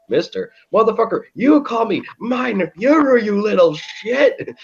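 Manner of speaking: high mock-furious Hitler voice; mock Hitler rant. Hitler scolding the fawning kid, high mock fury. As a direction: snap at him in a put-on rage. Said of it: "he starts yelling and spitting at him".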